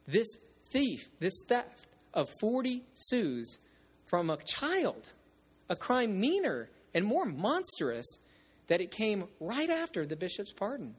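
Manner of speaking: intense reading with rising lines; dramatic reading. Shown as a demonstration. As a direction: read it as a growing confession. Reads novel passage aloud.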